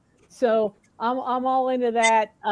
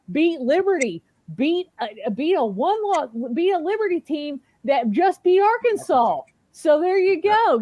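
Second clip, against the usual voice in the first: excited rant; 5 semitones higher than usual. Real, not acted.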